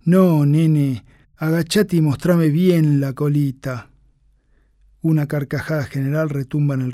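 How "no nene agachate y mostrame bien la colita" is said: loud, slow mocking order to a recruit; raised voice. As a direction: call it out loud, slowly, for the whole hall. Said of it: "eleva el tono y su voz llega hasta el último rincón".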